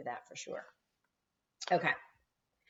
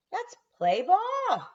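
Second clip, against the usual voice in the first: higher, slow rallying yell; coach yelling; 14 semitones higher, 5 dB louder, much slower than usual. A narrator's reading. Coach yelling to the team to start play. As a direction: call the game to start. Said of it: "she yelled".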